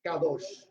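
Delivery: Kadosh said as a separate word, stress on the end; Hebrew pronunciation. Shown as a demonstration. Teacher giving students the Hebrew word, pronunciation demo. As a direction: say Kadosh with a final sh. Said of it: "La palabra en hebreo es".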